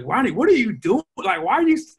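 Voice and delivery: mock bewildered teammates asking what he's doing; teammates baffled. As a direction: play the confused teammates. Teammates questioning him.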